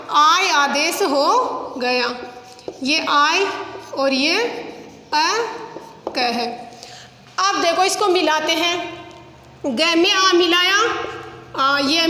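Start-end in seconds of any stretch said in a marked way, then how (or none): 5.2-6.4 slow sounding out. Shown as a demonstration. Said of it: "teacher splits word slowly".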